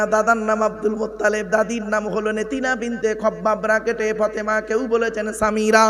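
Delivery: level, rhythmic roll-call of names and dates; memorised list recitation. Acted. Preacher listing the Prophet's family to the congregation, level rhythmic recital. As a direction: reel it off steadily, barely pausing between items.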